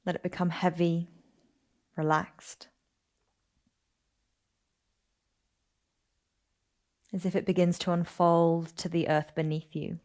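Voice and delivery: calm, unhurried yoga nidra guidance; guided meditation. Acted. Teacher settling listeners into yoga nidra on their backs, guided meditation. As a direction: ease them into rest, with long pauses between phrases.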